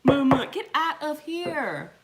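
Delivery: high, loud, slow pleading shout; begging the kids for privacy; mock exasperated yell at knocking sons; yelling through the door. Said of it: "Knocking on the door".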